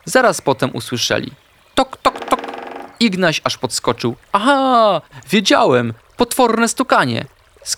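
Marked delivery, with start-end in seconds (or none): 1.7-2.4 high, short knocking sounds; tok-tok in a raised pitch; knocking imitation. A narrator's reading. Narrator imitates a woodpecker knocking. 4.3-7.3 high, dramatic little-animal alarm; agitated outburst with pitch leaping up; startled triumph. A narrator's reading. Ignaś startled, jumps at knocking.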